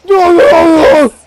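loud, slowed no-no-no; drawn-out no. Real, not acted. A gamer yelling at the monster, loud drawn-out no's. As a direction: howl the no's out in alarm. Panic in fight.

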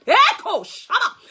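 loud ecstatic tongues; fervent praying in tongues; speaking in tongues. Real, not acted. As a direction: let the tongues pour out loudly.

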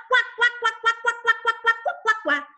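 searching duck quacks; mother duck quacking. Acted. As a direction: quack to find the ducklings. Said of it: "E fazia quá".

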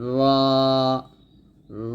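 র said with the vowel ra, not রা; a short full র; Arabic ra. Shown as a demonstration. Teacher correcting রা to র. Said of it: "র বলতে হবে".

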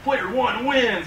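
slow booming game announcer. Retold or imitated. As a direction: announce it like an arcade machine.

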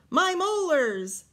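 loud, high, slow shout of delight; joyful yell. Acted. George yelling after finding his old teeth, joyful shout. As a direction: yell with joy at the find. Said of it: "and yelled".

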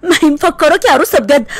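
talking through a laugh; amused friend teasing. Acted. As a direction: say it while laughing. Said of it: "ميتة على نفسها من الضحك وبتقول".

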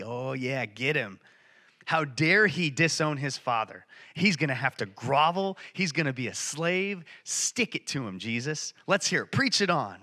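imitating eager, gloating onlookers; mock relish, egging the punishment on; gloating Pharisees. Pharisees rooting for the son to be punished, gloating. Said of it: "they're rubbing their hands. They're like".

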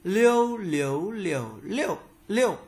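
"Liêu, liếu, liều, liêu, liêu" through the tones, loud high level first; high, rising, dipping, falling takes of "Liêu, liếu, liều, liêu, liêu"; tone drill. Shown as a demonstration. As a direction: recite "Liêu, liếu, liều, liêu, liêu" changing only the pitch contour. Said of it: "phần luyện tập về thanh điệu".

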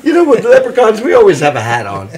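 stage Irish leprechaun lilt; Irish accent. Acted. Leprechaun explains his hat to the others, in Irish accent. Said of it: "I can do an Irish voice".

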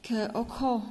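"Khờ ô khô", sound by sound, slowly; spelled-out blending. Shown as a demonstration. Teacher explaining the merged consonant, slowly sounding out "Khờ ô khô". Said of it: "chúng ta sẽ có".

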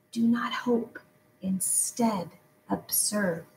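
breathy hushed whisper. A narrator's reading. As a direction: whisper it, barely voiced. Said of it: "And then she whispered".

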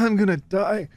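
worn out from laughing; laughed to tears. Real, not acted. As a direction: recover from a real laughing fit, voice low. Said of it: "I'm actually crying".

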